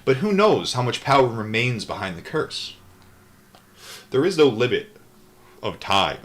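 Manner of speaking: steady read-aloud narration; calm audiobook-style reading; book reading. A narrator's reading. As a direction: read the memoir aloud evenly.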